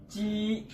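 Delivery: ची said with a level, flat tone, not rising or falling; flat chi. Shown as a demonstration. Teacher showing students the flat Chinese ची. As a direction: hold ची on one even pitch like a Chinese first tone. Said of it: "जरा flat करके".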